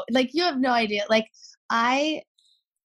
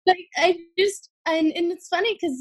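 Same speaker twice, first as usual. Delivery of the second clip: higher, giggling through the words; laughing; 11 semitones higher than usual. Real, not acted. Gushing to the podcast host about her, laughing. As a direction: let the laugh carry the words up. Laughing after friend nearly cries.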